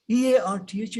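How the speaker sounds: EARTH short, with the R pronounced; quick "urrth" for EARTH; wrong, R sounded. Shown as a demonstration. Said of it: "is not earth".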